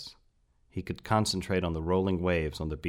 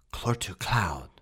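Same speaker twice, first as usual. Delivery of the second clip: loud theatrical whisper; 2 semitones higher than usual. He tries his first word on a cloud at last, half-whispered. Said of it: "he whispered at last".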